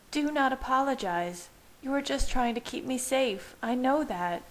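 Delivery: high, firm tearful woman. A narrator's reading. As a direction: insist firmly through tears. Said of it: "Bella said firmly".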